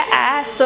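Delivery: ए स split into vowel "ae", then "s"; sounded-out letter name. Shown as a demonstration. Teacher shows the starting sound, ए स broken into "ae" and "suh". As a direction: sound out ए स in two parts, vowel first. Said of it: "पर sound क्या आ रहा है".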